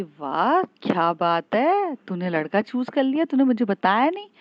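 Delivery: loud, gushing tease; excited teasing. Retold or imitated. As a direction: crow over a friend's secret romance. Friend teasing Naina about a boy.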